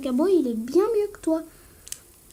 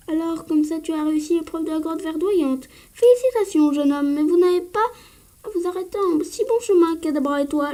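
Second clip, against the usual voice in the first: doyen bourru. Acted. Voix du doyen Pectorus.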